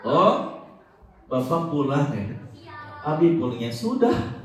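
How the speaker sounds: barely notice dad is home; indifferent child. Pretend. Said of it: "Kalau anaknya seperti ini". (anak menyambut ayah dengan acuh tak acuh)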